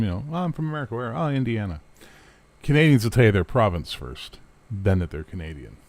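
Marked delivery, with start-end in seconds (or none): 0.3-1.8 mock dialogue. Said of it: "the rest of them".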